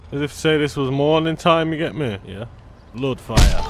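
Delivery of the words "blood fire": shouted exclamation. Real, not acted. Exclaiming at the scene.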